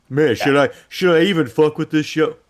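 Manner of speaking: loud, clueless voice. Imitating a doubtful viewer asking about the show: imitating Adrian. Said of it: "like Adrian".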